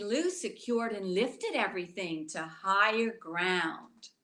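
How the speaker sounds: put-on rhythmic rhyming read-aloud for children; storybook reading. A narrator's reading. Teacher reading a rhyming book to children, gently. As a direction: read the rhymes to the little ones.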